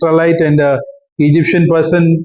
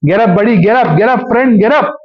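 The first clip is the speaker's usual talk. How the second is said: coaxing; 5 semitones higher than usual. Acted. God coaxing weary Elijah.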